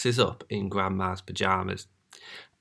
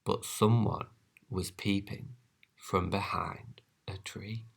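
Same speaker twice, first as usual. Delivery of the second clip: much softer, secretive; hushed aside; 11 dB quieter than usual. A narrator's reading. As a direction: lean in and hush. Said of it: "hushed aside to listeners".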